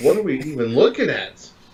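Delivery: ordinary delivery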